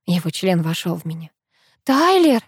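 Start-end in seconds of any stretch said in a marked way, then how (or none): 1.8-2.4 a high, gasped cry of the name; high gasping "Тайлер!". A narrator's reading. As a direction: gasp the name out, caught off guard. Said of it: "ахнула я".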